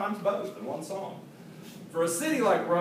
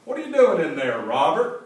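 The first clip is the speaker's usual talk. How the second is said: louder teasing on-air call; playful louder call across the studio; mock call to the engineer; 7 dB louder than usual. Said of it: "Irvin would say to the engineer on air".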